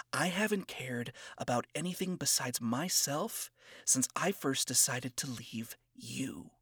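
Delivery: a hint of cocky scorn, hushed; condescending and cocky. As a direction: talk down to him quietly. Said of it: "spoke in a condescending and cocky tone".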